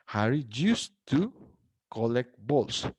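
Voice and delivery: ordinary talk, nothing marked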